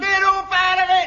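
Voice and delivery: snapping wife. Acted. Wife shouting him away.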